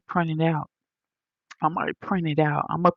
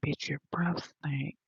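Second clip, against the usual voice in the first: retold whisper; 7 dB quieter than usual. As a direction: softly imitate his sneaky remark. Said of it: "he whispered and was like".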